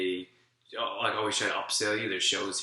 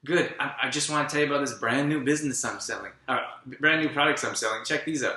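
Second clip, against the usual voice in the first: put-on salesy old friend; 5 semitones higher, 4 dB louder than usual. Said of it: "we're like".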